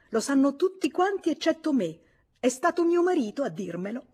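high, loud, indignant outburst; furious, indignant. A narrator's reading. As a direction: repeat it in outraged disbelief, pitch jumping up. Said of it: "furibonda, indignata, lei ripeté". (furibonda e indignata, a voce alta)

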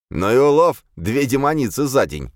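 high, excited exclamation, opening loud; delighted admiration. A narrator's reading. Legion admires the catch of two demonesses, delighted. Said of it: "восхитился Легион".

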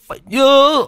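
high strained cry with last strength; desperate dying shout. Acted. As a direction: force out the final cry. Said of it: "như lôi tất cả sức lực ra ngoài cổ họng".

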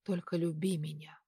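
breathy whispered plea; a soft intimate whisper. Acted. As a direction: whisper it, barely voiced. Lover pleading at the end.

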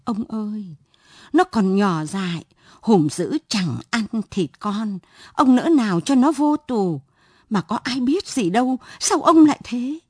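a touch of sobbing desperation; mild weeping plea for her son; tearful plea. Acted. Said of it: "bà vợ khóc nấc".

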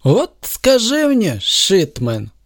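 slow, high, self-assured hero voice; lightly voiced smug superhero; a hint of a confident villainous hero; confident Superman. A narrator's reading. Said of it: "начал Супермен уверенно".

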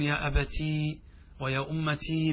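lengthened "tii" endings on أبتي and أمتي; with added ya. Shown as a demonstration. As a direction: hold the final ee in both أبتي and أمتي. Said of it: "بالياء".

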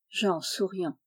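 usual speaking voice

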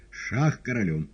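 Шах королю called out loud; announcing check. A narrator's reading. Woland announces check, loud firm call. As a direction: declare check firmly.

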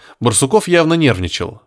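plain reading voice

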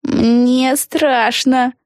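put-on very slow, high, scared girl; scared whisper. A narrator's reading. Peggy to her friends, lightly scared. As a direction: breathe it out frightened. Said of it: "прошептала Пегги".

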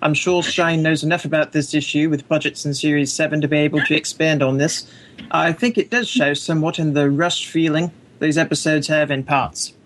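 reading aloud in an attempted Australian accent; a hint of put-on Australian accent. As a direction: imitate an Australian, lightly. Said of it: "read it in an Australian accent".

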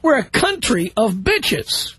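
slow, each word leaned on; slow emphatic restatement. Real, not acted. Host repeating his insult slowly to the caller, emphatic. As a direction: hammer home the insult. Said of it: "notice I said country and bitches".

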